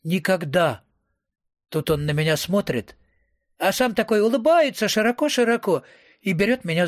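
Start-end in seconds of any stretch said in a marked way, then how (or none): 0.0-0.8 mock-spooky, altered voice; creepy voice. A narrator's reading. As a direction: say it like an ominous omen. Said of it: "жутким-жутким голосом". (жутким-жутким голосом)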